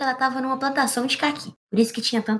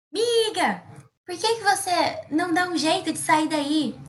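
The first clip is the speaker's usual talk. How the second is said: calling out; 8 semitones higher, slower than usual. Acted. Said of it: "alguém gritando".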